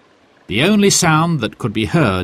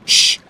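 shushing; 4 dB louder than usual. A narrator's reading. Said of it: "said Jack".

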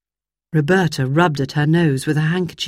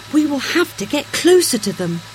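put-on higher girl voice; lightly voiced young girl; Roberta's girl voice; 7 semitones higher than usual. A narrator's reading.

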